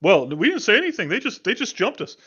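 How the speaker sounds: heated, defensive fighter; agitated survivor. Acted. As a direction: insist you were ambushed. GM voices survivors.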